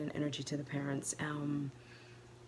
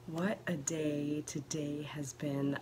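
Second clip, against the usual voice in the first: whispering; slower than usual. Real, not acted. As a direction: hush it like the house sleeps. Whispered nighttime vlog.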